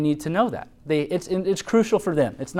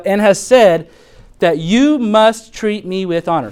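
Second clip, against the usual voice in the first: gentle firm correction; 5 semitones higher, 8 dB louder, slower than usual. Shown as a demonstration. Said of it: "This is a quote".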